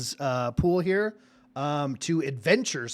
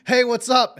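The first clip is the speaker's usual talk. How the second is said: higher, louder mock yell of greeting; retold yell; 7 semitones higher, 6 dB louder than usual. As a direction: call it out as if hailing someone at the gate. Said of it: "walking up to the front gate and yelling".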